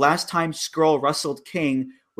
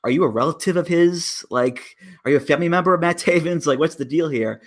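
imagined question; 6 semitones higher, faster than usual. Retold or imitated. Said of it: "tap him on the shoulder and be like".

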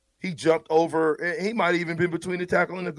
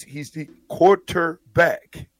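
QUARTERBACK drawn out slowly, syllable by syllable; emphatic stress on quarterback; 2 semitones higher, 4 dB louder, much slower than usual. Real, not acted. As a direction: hammer "quarterback" slowly, each syllable separate. Spells out emphatically who he is.

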